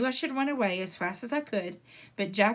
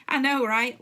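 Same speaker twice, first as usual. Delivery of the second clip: laughing; 4 semitones higher, 6 dB louder than usual. A narrator's reading. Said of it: "laughed Amos".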